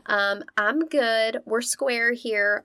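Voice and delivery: lightly voiced carefree runaway; mock breezy email voice. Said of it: "It was, it was that dramatic".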